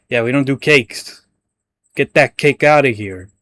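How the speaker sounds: a hint of a mock Italian pizza guy; jokey Italian pizzeria owner; Italian accent. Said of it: "I'm trying to do Italian".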